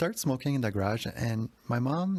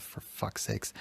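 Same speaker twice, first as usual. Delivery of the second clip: softer, breathy fed-up curse; muttered curse; 5 dB quieter, slower than usual. Retold or imitated. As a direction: mutter it in exasperation. Annoyed son muttering at mom.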